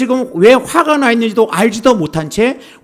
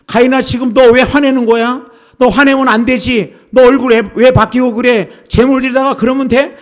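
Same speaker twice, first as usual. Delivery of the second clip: higher, louder scolding voice; scolding rebuke; 4 semitones higher, 4 dB louder than usual. Pretend. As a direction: scold Cain like an angry parent. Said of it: "이렇게 책망하려고 그러는 것이 아니라". (꾸짖는 목소리)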